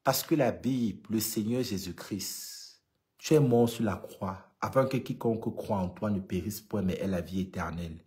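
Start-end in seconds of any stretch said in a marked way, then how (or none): 1.1-8.0 recited prayer. Shown as a demonstration. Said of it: "C'est des récitations".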